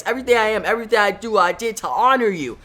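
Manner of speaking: pleading shout. Acted. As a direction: cry out to win him back. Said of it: "Wally shouts as his hand starts".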